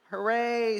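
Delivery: high bright hooray; cheering. A narrator's reading. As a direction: cheer with delight. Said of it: "said Phil and Dennis".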